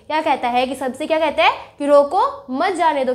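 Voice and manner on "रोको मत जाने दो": a firm रोको on its own, then मत जाने दो as one phrase; pause after रोको. Shown as a demonstration. Mohan repeats his order to stop the boy, pausing after रोको. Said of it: "रोको" के बाद रुकेंगे".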